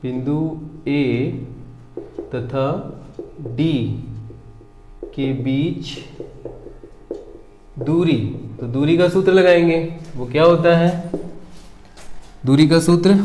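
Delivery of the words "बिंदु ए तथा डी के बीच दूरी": soft isolated words with long pauses; slow writing-along voice. Real, not acted. Maths teacher writing out the distance between two points, halting writing-along voice. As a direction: eke it out quietly as you write.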